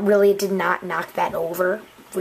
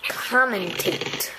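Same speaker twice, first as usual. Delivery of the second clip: drawn-out word; much slower than usual. Pretend. Player testing whether it's a real word, COMMENTATE drawn out. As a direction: COMMENTATE stretched very slowly.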